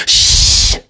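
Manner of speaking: breathy unvoiced shush; a timid little shush; the brave-enough shush. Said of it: "that's what all of us are generally brave enough to do".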